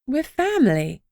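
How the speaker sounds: earnest appeal to grandad; entreating. A narrator's reading. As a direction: plead with him gently. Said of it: "I entreated".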